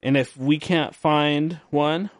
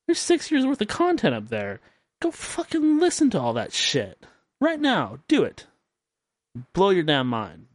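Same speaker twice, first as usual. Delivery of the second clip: hyped up; 6 semitones higher than usual. Real, not acted. Hyping listeners to his site.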